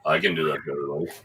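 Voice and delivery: soft, fast soothing read. Pretend. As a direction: lull them with a soft voice. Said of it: "in a soothing voice".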